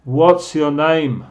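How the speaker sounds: slow, clearly projected phrases for learners; teacher's drawn-out demonstration. Shown as a demonstration. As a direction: say it slowly for students to repeat. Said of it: "voy a decirlos más lento".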